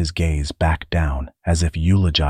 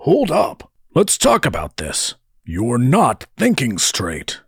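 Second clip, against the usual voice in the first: high-pitched, animated character voice; worried protest, pitched up; urgent, pleading brother; 7 semitones higher than usual. A narrator's reading. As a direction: call after him to make him stop. Darl urges his brother to stop.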